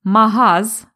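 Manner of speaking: slow, stressed магаз; teaching the word магаз; slang clipped word. Shown as a demonstration. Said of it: "Наприклад".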